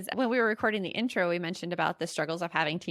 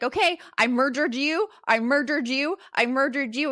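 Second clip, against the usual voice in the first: put-on playful kid taunt; 4 semitones higher, 5 dB louder than usual. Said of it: "he's like".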